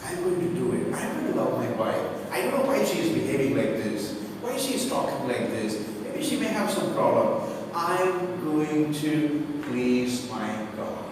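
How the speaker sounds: low, soft self-talk; low-pitched, subdued husband's resolve; resigned resolve. Acted. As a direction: talk yourself into patience, quietly. Acts out husband resolving to love.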